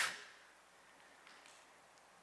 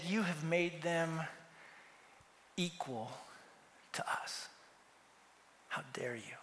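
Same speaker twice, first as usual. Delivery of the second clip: indignant whisper; 3 semitones lower, 9 dB quieter than usual. Retold or imitated. Offended workers confront the master.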